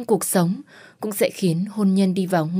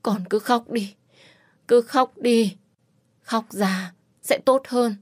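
comforting; 3 semitones higher, slower than usual. Acted. Bác Minh comforts her.

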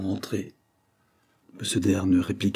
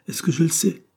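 أقل وضوحًا من المعتاد; 9 semitones higher than usual. A narrator's reading. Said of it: "répondit-elle moins clairement que de coutume".

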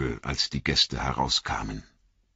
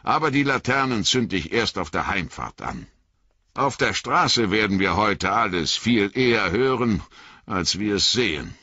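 farmer Maggot; 5 semitones higher, 4 dB louder than usual. Acted.

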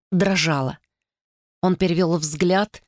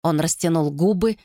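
ordinary delivery

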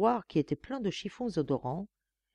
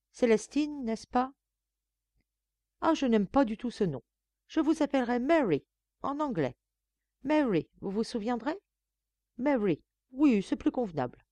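higher, imperious lady of the house; higher-pitched bossy madame; haughty mistress; 7 semitones higher than usual. A narrator's reading. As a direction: talk down to the new maid from on high. Narrator voices Madame.

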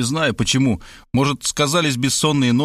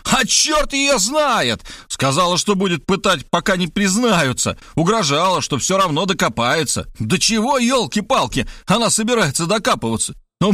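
furious yelling; 7 semitones higher than usual. A narrator's reading. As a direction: bellow it in exasperation. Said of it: "выругался и заорал".

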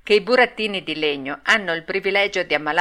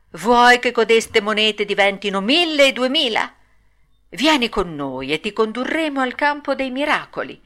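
higher-pitched tempting swindlers; wheedling fox and cat; 4 semitones higher than usual. Acted. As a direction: lure a gullible puppet along.

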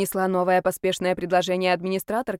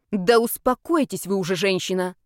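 angry rebuke. Acted. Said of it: "сердито сказала".

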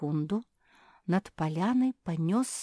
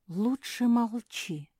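ordinary delivery, nothing marked

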